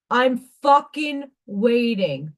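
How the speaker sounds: tough New York accent. Shown as a demonstration. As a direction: say it like a New Yorker. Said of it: "in my New York accent".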